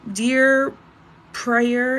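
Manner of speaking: loud, bold opening on "Dear" before a name; confident start. Real, not acted. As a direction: say "Dear" loudly, as if the name is sure to follow. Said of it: "cannot pronounce your name".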